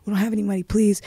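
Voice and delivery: mildly urgent, repeated plea; retold begging. Child begging an attacker to spare the family, retold pleading. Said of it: "begging him".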